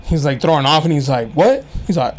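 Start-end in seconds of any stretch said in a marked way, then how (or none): 1.3-1.6 sharp higher "What?"; mock defensive guy. Imitating a guy in a street video, mock offended. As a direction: snap it back, offended. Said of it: "Like, very aggressive".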